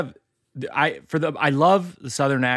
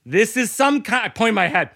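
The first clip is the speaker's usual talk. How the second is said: confused guess; 9 semitones higher than usual. Retold or imitated. Pointing at his hat, trying to answer.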